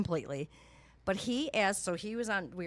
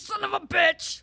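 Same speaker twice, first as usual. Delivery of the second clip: slow, higher, louder laughing curse; 10 semitones higher, 5 dB louder, slower than usual. Retold or imitated. Retelling phone lock fiasco, laughing curse. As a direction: blurt it out through a laugh. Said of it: "I'm like".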